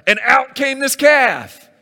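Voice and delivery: hammed-up ta-da, high and loud; spring the calf out like a stage magician; mock magic reveal. Aaron mocking his excuse to Moses, as a showy ta-da.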